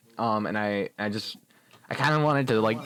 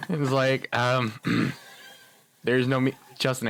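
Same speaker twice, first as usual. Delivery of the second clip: normal talking voice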